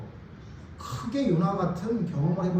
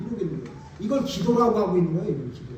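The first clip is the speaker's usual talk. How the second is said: normal talking voice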